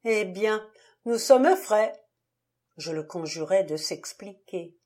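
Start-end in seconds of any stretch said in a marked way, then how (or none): 0.0-1.9 bitter and nearly cheerful, louder on frais; half-mad bitter gaiety; a bitter laugh in the voice; bitter, almost gay. A narrator's reading. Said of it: "sur un ton amer et presque gai".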